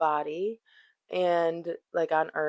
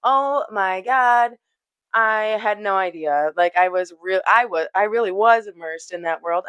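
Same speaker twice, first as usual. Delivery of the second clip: louder, delighted relief, a touch of laughter; excited Indra; 4 dB louder than usual. Retold or imitated. Indra thanking the gods who freed him, louder and excited. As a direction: burst out grateful and giddy. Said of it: "he starts laughing".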